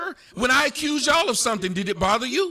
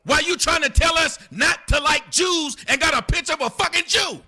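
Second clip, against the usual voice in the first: heated rant; 6 semitones higher than usual. Real, not acted.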